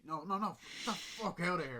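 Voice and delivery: mock shouting daughter. Daughter yelling at the stranger at her door, high and loud. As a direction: yell him off the doorstep.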